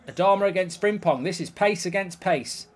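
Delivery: ordinary talk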